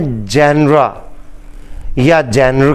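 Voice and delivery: جینرا and جینر said the common Urdu way, with a hard j; the wrong way, جینر with a j sound; wrong pronunciation. Shown as a demonstration. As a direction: demo of the mistake, جینرا with a hard j. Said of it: "اس کا pronunciation جینر یا جینرا نہیں ہے".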